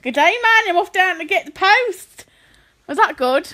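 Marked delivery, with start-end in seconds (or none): 0.0-2.2 put-on Australian accent. Answering an accent challenge, attempted Australian accent. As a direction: greet them in mock Australian.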